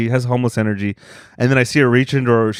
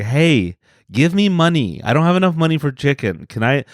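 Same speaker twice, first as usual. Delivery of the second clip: a hint of Hispanic accent, slightly raised; old lady Hispanic voice; 2 semitones higher than usual. Old lady asks a customer for chicken money, lightly imitated Hispanic voice. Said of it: "she said it in a old lady Hispanic voice".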